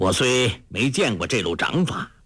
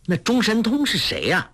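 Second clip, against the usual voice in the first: put-on a much higher girlish question; curious young girl; 10 semitones higher than usual. A narrator's reading. Huang Rong asking the old beggar, curious. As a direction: ask wide-eyed like a young girl.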